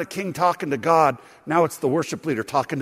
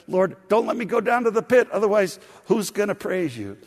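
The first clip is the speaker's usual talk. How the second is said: higher, pleading-bargaining tone; cheeky bargaining; 4 semitones higher than usual. Retold or imitated. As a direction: argue your case with God. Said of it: "Like he's bargaining with the Lord".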